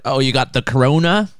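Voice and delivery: bad Australian accent. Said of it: "That was a really bad Australian accent".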